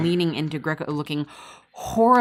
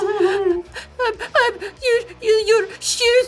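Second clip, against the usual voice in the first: put-on high, broken, sobbing child's stammer; crying little girl; 5 dB louder, slower than usual. Mila apologizing to Frost about his shoes, high and crying. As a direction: stumble over the words through tears.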